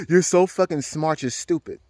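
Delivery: slow, disbelieving echo in his own voice; incredulous repeat. Retold or imitated. Repeating the mushrooms' words back, slow and disbelieving. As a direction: repeat it back in mild amazement, slowed down. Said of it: "I bust out laughing".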